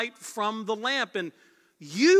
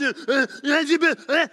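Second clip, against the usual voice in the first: laughing; 5 semitones higher, 7 dB louder than usual. Retold or imitated. Mock churchgoer stammering, laughing.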